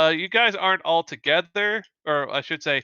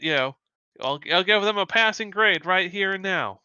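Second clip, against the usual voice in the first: lightly voiced tough instructor, raised pitch; challenging instructor; 3 semitones higher than usual. Powerless instructor daring students to fight, lightly acted challenge. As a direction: lay down a challenge to the class. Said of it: "She's like".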